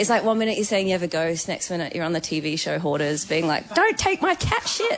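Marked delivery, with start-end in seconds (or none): 3.8-5.0 hoarder voice. Retold or imitated. Mimicking a hoarder on TV.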